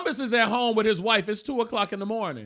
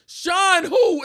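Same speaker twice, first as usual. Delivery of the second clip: high, louder baffled question; surprised; 10 semitones higher, 5 dB louder than usual. Retold or imitated. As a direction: ask it genuinely baffled. Confused retold question.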